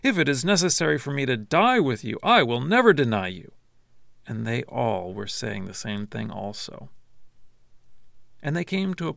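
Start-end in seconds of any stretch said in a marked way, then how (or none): 0.0-3.5 a touch louder, insisting; emphatic vow, somewhat louder; emphatic insistence. Acted. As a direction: Peter insisting he will stay loyal. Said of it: "he kept saying emphatically".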